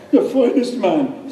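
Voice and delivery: put-on slow, maudlin tearful drunk; drunken weeping. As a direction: blubber it into your glass. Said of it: "starts doing the weeps".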